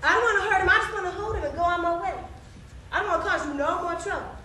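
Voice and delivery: meek, apologetic plea; humble apology. Acted. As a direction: back down humbly and beg pardon. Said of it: "all humble and apologetic".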